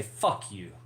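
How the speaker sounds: low, soft flirting; flirty demo. Shown as a demonstration. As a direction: say it like a soft come-on.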